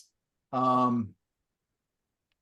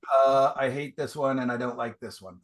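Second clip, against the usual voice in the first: mock mean. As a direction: playfully fake harsh critique. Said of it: "Trying to be mean".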